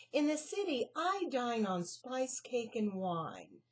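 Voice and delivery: grand. Acted. City mouse boasting grandly to Annie. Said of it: "said the City Mouse rather grandly".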